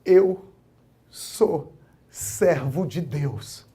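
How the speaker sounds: very slow, words held back by tears; choked testimony. Retold or imitated. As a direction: force each word out past emotion. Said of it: "Falando pra juíza".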